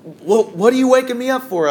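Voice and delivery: jolted awake and annoyed about it; groggy alarm. Retold or imitated. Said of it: "I'm like".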